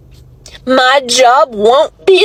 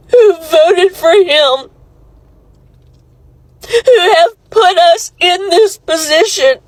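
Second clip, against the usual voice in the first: crying; 3 semitones higher than usual. Real, not acted. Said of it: "I'm ugly crying on it".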